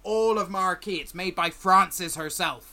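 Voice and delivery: lightly voiced scruffy salesman; a fawning trader reeling off his wares; stall merchant. GM as merchant selling tools to the party, lightly voiced. Merchant's crafted-brush pitch.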